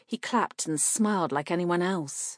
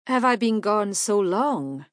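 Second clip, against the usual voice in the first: put-on young man voice; 3 semitones higher, 5 dB louder than usual. A narrator's reading. Salamander's voice in story.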